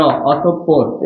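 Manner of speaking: "অতঃপর" slow, drawn out, with a doubled p; pronunciation demo. Shown as a demonstration. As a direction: sound out "অতঃপর" slowly for a student. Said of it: "উচ্চারণ করলে sir আপনি শুনবেন".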